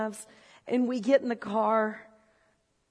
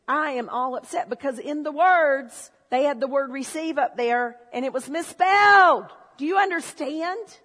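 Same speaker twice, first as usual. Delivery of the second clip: loud, higher, hammed-up indignation over a typo; mock outrage; 4 semitones higher, 8 dB louder than usual. To the congregation, mocking his old self, hammed-up outrage. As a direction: rant like the spelling ruined everything.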